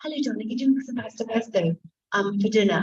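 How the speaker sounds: put-on light switch from Glaswegian to her own English accent. Actress dropping Kathy's Glaswegian on set, lightly English accent. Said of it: "I can't be talking on set as Kathy and then go".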